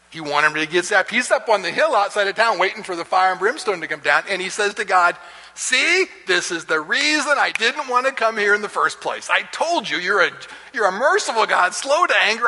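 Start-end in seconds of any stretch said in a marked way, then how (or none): 5.5-12.5 high, complaining told-you-so; lightly acted sulking prophet; whiny Jonah. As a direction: whine at God.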